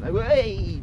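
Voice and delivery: loud high call to the dog; sharp call. Real, not acted. Owner stopping his dog, sharp call. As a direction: cut her off with one word.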